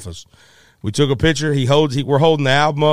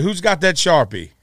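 calling for a Sharpie; 5 semitones higher than usual. Retold or imitated. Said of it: "Like that".

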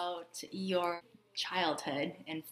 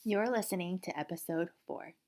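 scripted bilingual show opening; podcast intro; 4 dB louder than usual. Acted. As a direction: welcome the listeners as a podcast host.

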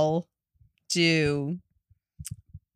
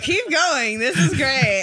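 laughing mock encouragement; 6 semitones higher, slower than usual. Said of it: "I was like".

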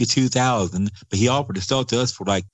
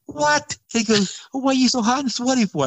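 surprised. Retold or imitated. Brother puzzled by his sweat.

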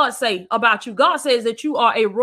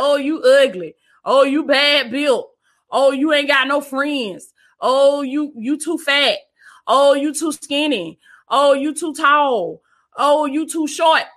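mocking inner voice; slower than usual. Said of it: "listening to that voice talking about".

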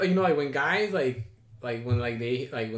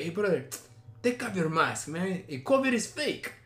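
put-on Armenian accent, higher at the end; imitated Armenian accent; 3 semitones higher than usual. Date telling guest to take mask off, imitated Armenian accent. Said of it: "the accent goes from Armenian to fucking Spanish".

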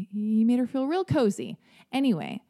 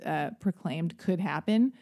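usual speaking voice

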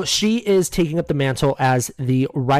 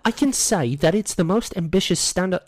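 put-on shaky try at British or Australian accent; badly faked British accent; attempted British accent; 3 semitones higher than usual. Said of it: "whether it's British or Australian".

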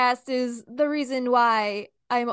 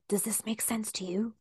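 whisper; 7 dB quieter than usual. Shown as a demonstration. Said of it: "Whisper, just whisper to the next person".

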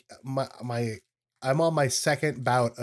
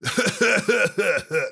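fake cough; 6 semitones higher, 4 dB louder than usual. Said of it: "That was a fake cough".

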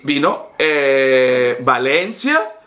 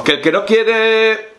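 slow, put-on Italian lilt; last gasp of the fake Italian; mock Italian; 5 semitones higher, slower than usual. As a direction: fake Italian accent slipping back to Spanish. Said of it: "vamos, que volvió el español".

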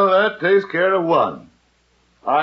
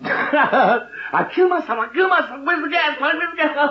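imitating a dramatic kid; 12 semitones higher than usual. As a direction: overact the kid's melodrama, much higher. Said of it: "Good little actor".

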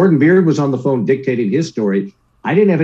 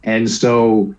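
normal talking voice

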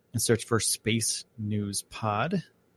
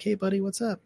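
voicing the dog; 10 semitones higher than usual. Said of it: "She's like".

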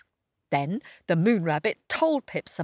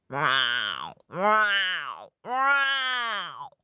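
roaring; much slower than usual. A narrator's reading. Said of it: "roared Snow Leopard".

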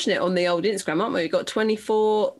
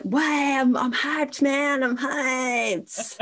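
hyped up; 6 semitones higher, much slower than usual. Retold or imitated. Acting out her post-record buzz.

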